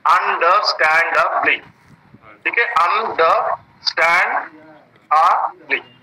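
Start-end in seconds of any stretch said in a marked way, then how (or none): 0.1-1.6 अंडरस्टैंडेबली measured out syllable by syllable; five syllables. Shown as a demonstration. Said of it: "there are five syllables है इसमें". 2.6-5.9 अंडरस्टैंडेबली very slowly, long gaps between syllables; five separate syllables. Shown as a demonstration. Teacher showing there are five syllables, very slowly split up. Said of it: "there are five syllables".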